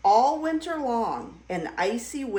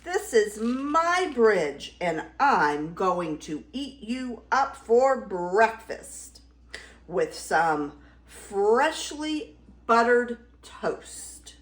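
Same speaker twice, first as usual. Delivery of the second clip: roaring troll. Acted. Troll threatening to eat Baby Gruff, mild roar. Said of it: "roared the troll".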